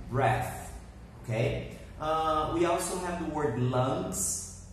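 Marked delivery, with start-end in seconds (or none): 0.1-0.7 "Breath" modelled with a short e; careful pronunciation of breath. Shown as a demonstration. Teacher models the word for students, careful "Breath". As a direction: say "Breath" alone, clear final th. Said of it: "They have different pronunciations".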